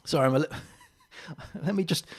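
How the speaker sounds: pausing mid-sip of beer; drinking beer. Real, not acted. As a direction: talk between sips of beer. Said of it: "I'm drinking beer at the same time".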